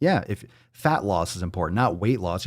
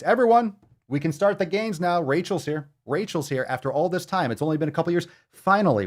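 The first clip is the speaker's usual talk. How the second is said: hammed-up announcer of a big arrival, pitched up; mock excited; 5 semitones higher than usual. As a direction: trumpet her arrival like a herald. Reads Rachel's post in mock voice.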